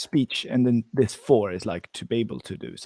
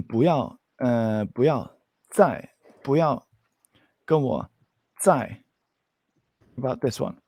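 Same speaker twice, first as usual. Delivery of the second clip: slow model phrase. Shown as a demonstration. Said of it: "I want to just mix up this one here".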